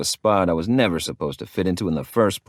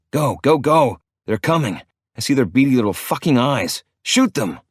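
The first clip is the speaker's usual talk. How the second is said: frantic, higher and louder; panicked urging; 6 semitones higher, 4 dB louder than usual. A narrator's reading. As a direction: hurry him up the ladder in panic. Rats chasing, urging friend to climb.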